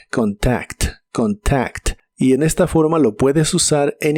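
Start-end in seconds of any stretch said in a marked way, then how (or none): 0.1-1.9 "contact" low, as "con-TAKT", every consonant sounded; teacher's lower-pitched model of "contact"; pronounced as spelled. Shown as a demonstration. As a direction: say "contact" with K and T both clear. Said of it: "Se pronuncia como se escribe".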